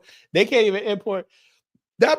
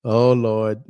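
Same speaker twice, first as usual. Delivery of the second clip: mock Trini accent; 8 semitones lower, 5 dB louder than usual. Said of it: "I hate that Trini accent".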